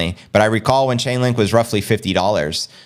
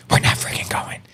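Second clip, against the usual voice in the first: whisper; 3 dB quieter than usual. Pretend. Aside joke about Cathie's party.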